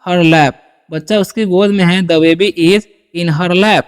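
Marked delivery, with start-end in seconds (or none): 0.1-0.5 put-on very slow, clear The baby is in her lap; slow model sentence. Shown as a demonstration. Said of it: "ठीक है". 2.0-3.8 put-on very slow, clear The baby is in her lap; slow model sentence. Shown as a demonstration. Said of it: "ठीक है".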